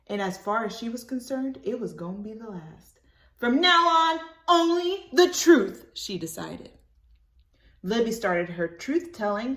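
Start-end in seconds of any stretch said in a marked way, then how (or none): 3.4-5.9 higher, louder firm vow; resolute child. Acted. Libby vowing to tell only the truth, high and firm. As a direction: promise it like a brave kid.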